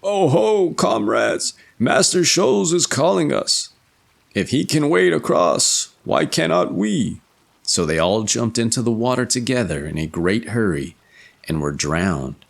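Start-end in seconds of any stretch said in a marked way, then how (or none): 0.0-7.2 excited calling. Acted. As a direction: call out with eager excitement. Six comrades calling out eagerly.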